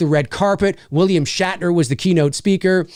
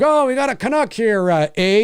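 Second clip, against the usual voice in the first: mock Canadian accent; 5 semitones higher than usual. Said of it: "doing the old".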